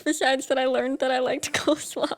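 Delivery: laughing. Real, not acted. Host explaining to co-host why the video never happened, laughing. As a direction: keep talking as the giggles linger. Still laughing over the coleslaw list.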